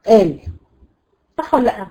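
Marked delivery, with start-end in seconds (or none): 0.1-0.4 Egyptian قال, starting on a glottal stop; qaf as hamza. Shown as a demonstration. Teacher confirming the dialect example, glottal stop for qaf. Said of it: "همزة".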